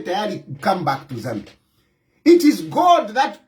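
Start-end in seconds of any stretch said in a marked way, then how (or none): 0.0-1.5 lower, softer godly command; a calm divine call from above. Retold or imitated. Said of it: "when God will say".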